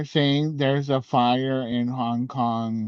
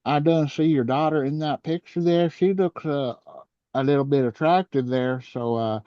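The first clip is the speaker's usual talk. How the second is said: hick president voice; 3 semitones higher, 3 dB louder than usual. Pretend. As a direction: play a crude yokel leader. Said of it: "I would've been like".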